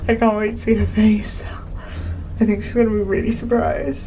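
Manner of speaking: breathless whisper of anticipation; excited whisper. Real, not acted. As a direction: whisper so she won't hear. Anticipation before surprise, hushed.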